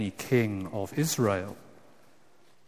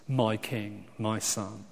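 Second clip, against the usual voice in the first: tender; 4 semitones lower, 7 dB quieter than usual. Acted. God addressing his son.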